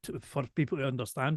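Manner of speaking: slow, careful, precise speech; deliberately slowed diction for clarity. Real, not acted. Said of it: "I have a really thick Glaswegian accent".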